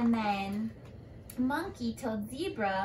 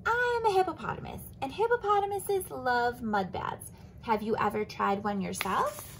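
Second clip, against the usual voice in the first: cheerful hippo. Acted.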